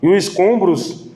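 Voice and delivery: slow, measured Bible reading from the pulpit; scripture reading. Acted. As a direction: read the verses deliberately, unhurried. Reads Nehemiah passage aloud. (leitura bíblica lenta e pausada)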